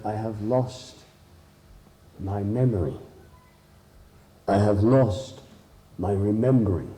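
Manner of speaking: lightly voiced grave confession with long pauses; sorrowful wolf. Wolf tells the mouse of lost memory, mildly sorrowful. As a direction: admit the loss haltingly, a touch mournful.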